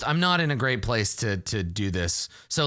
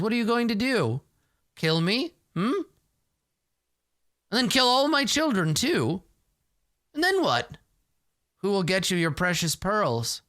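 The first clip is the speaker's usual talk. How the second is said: put-on taunting old Granny; 6 semitones higher than usual. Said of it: "she laughs and says".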